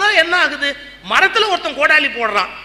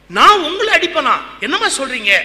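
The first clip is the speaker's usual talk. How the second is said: shocked denial; 4 semitones higher, 3 dB louder than usual. Retold or imitated. Ramakrishna shocked by Kali.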